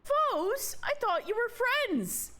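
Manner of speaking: high, incredulous question; hurt surprise. Acted. Friend hearing themselves called foes, dismayed. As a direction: pitch it way up, taken aback. Character reacts to being called foe.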